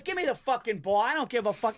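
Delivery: heated, high-pitched mock squabble; arguing Italian guy. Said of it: "sounded like two fat Italian guys".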